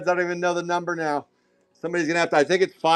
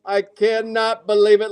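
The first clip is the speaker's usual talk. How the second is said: raised, stretched-out disbelief; excited disbelief; 5 semitones higher, 4 dB louder than usual. Real, not acted. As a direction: marvel out loud, catching your breath. Still hyped over streak.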